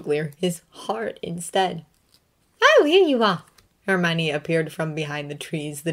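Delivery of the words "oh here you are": put-on higher, louder relieved young woman; Hermione's voice. A narrator's reading. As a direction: call out with relief, pitched up.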